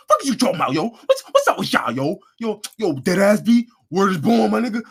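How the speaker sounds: loud, high hammed-up New York street talk; exaggerated New York accent; mock New York accent. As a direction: overdo the New York slang voice. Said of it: "But when you say".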